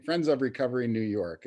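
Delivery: careful restatement of an organization's name. Real, not acted. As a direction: repeat the name clearly so it can be caught. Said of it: "say that again a little slower".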